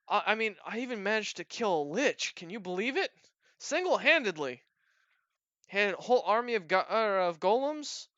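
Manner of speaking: high-pitched goblin bragging; boastful goblin. Acted.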